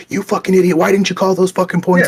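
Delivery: a mock tirade at the ref; hammed-up angry yell; mock angry rant. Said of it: "I didn't come out and be like".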